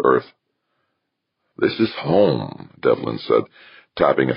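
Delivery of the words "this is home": high, drawn-out claim of home; a raised character voice, unhurried; firm declaration. Acted. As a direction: say it slowly, landing on home. Devlin asserts the station is home.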